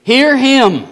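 loud, commanding declaration of God; voice from heaven. Acted. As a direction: proclaim it from on high. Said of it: "a voice came out of the cloud".

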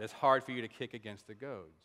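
unceremonious, dropped-pitch quote from a confused listener; puzzled repetition. Acted. Baffled hearer repeats the saying.

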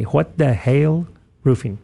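"What the Hail" said slowly, "hail" drawn out; careful pronunciation. Shown as a demonstration. Host names the sponsor, slow and deliberate on "hail". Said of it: "Sounds like I got an accent when I say hail".

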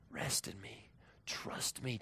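near-whispered, soothing words; hushed reassurance. Acted. God calming a worried believer, hushed.

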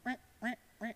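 soft imitated clipping shears; shears noise. Grandma's shears imitated, soft clipping sound. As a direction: mimic grandma's shears softly. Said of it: "that little thing that goes".

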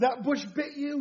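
retold puzzled dad echoing his son; questioning father. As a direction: echo it back as a mild question. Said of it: "I said, I said".

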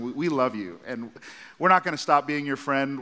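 calm a friend who wants a fight; gentle reassurance. Retold or imitated.

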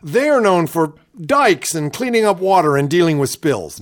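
a lightly voiced, halting Palin with a high jump on Norwegian; mock Palin, stumbling and faux-earnest; Sarah Palin impression. Host repeats the politician's answer to co-host, lightly mimicking Palin. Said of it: "I love the way she talks like this".

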